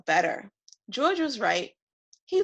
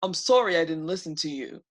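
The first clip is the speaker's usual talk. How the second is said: sorry dragon; 3 semitones lower, faster than usual. Acted. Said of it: "He felt so horrible and sad".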